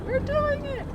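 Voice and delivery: high, thrilled cry; excited. Real, not acted. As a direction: squeal it with glee. Driving through the water crossing.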